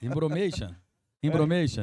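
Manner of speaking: mock English. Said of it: "Isso não é espanhol, é inglês".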